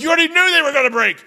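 high, fast, squeaky whine at the Lord; indignant high-pitched griping; mock exasperated complaint to God. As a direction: whine it up high like a scolded kid. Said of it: "I'm like".

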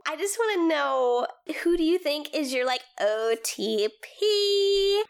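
lightly voiced Valley Girl, gossipy. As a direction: ask like a bubbly Valley Girl. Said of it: "This is the Valley Girl voice".

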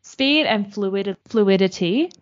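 careful retry. Shown as a demonstration. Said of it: "Whoa, hello?".

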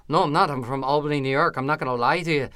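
retold denial in a put-on Irish brogue; mock-earnest Irish-accented insistence. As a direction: protest lightly in an Irish accent. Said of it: "I never left the accent the whole night".

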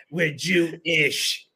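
"Jewish" drawn out slowly, split as Jew-ISH; slow the line and lean on the "ish" of "Jewish"; "Jewish" said as two parts, weight on the ending; stress on ISH. Retold or imitated. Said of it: "Emphasis on this".

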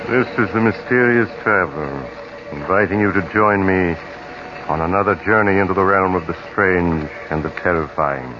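spooky anthology host welcoming the audience; eerie radio host intro. Acted. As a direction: draw the listener into a creepy tale. Host opens the radio tale.

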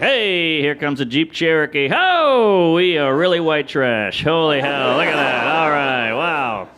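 hollered running commentary on the passing scene; color commentary. Retold or imitated. Kid in the back commenting on cars, color commentary. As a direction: call it out with long, drawn openers. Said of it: "like, color commentary".

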